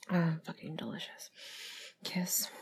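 soft, whispery murmur; softly whispered, for one listener; intimate whisper. Pretend. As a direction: keep it hushed and close. Intimate roleplay, eating.

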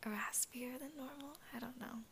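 raspy just-woke-up voice; slightly hoarse morning voice. Real, not acted. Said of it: "my morning voice".

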